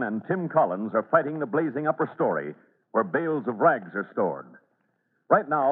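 measured, grave scene-setting narration; radio narration. A narrator's reading. Announcer setting the scene for listeners, grave narration. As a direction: build dread as the floor threatens.

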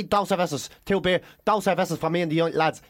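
Spanish left in a plain Irish accent. Shown as a demonstration. Irish tourist ordering for the lads, Irish accent. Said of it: "You can't say".

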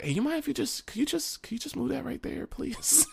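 high, soft, gentle request; polite Joe. Retold or imitated. Host Joe asking dad to move the mic, soft and high. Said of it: "eventually Joe was like".

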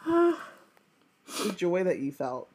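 very slow, dragged words; slow deadpan. Acted. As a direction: drag each word out disapprovingly.

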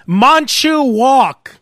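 deliberate imitated Asian pronunciation; put-on Asian accent. Shown as a demonstration. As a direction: stretch out the name in a mock Asian accent. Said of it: "why do you have to say it like that".

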